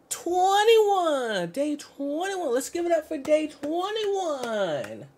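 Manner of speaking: high, loud, drawn-out cheer; hyped-up shout. Real, not acted. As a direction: whoop it out like a hype announcer. Streamer hyping the day count.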